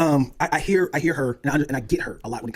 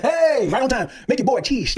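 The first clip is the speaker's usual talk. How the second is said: playful greeting; 9 semitones higher, 4 dB louder, slower than usual. Retold or imitated. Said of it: "like, come on".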